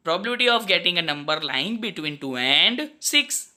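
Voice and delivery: measured, slow reading; slow dictation. Acted. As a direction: say it so it can be written down. Dictating slowly.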